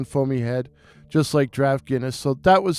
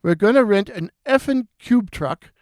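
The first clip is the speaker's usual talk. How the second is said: put-on high, excited Irish accent, ranting; an Irish barman venting about his day on the phone; Irish bartender impression; 4 semitones higher than usual. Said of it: "beautiful restful Irish voice".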